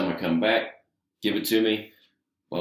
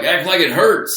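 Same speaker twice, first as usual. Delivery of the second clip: retold shout, higher and louder; mock yell; 9 semitones higher, 8 dB louder, slower than usual. Veterans yell at the green rookie in the ring, mock shouting. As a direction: bark it like an impatient veteran. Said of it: "they were like".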